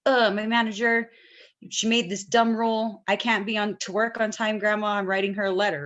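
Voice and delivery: casual complaining to grandma. Retold or imitated. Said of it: "I might talk about the same situation".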